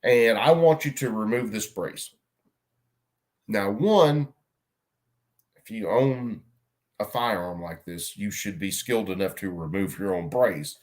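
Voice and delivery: talking around a lit cigarette; cigarette in mouth. Real, not acted. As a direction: speak with a cigarette between the lips. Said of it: "Let me light my cigarette".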